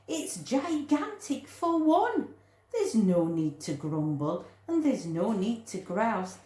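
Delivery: put-on a content old lady marvelling at space; lightly voiced grateful old lady; delighted old lady.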